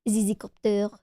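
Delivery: French-accented pronunciation of "Zizzycopter"; "Zizzycopter" with French vowels. Shown as a demonstration. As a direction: say "Zizzycopter" as a French speaker would. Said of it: "any Frenchies in the chat".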